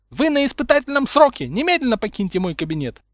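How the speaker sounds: high, loud furious dismissal; losing composure. A narrator's reading. Umbridge throwing Snape out, furious. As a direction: shriek an order to leave. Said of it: "окончательно теряя лицо".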